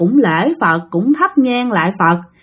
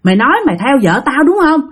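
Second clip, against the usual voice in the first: heated tirade, pitched up, building in threat; acted furious husband scolding, insistent and higher; angry cursing; 5 semitones higher than usual. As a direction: dare the spirit to fight you. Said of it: "bạn gằn lên, bạn chửi quá trời".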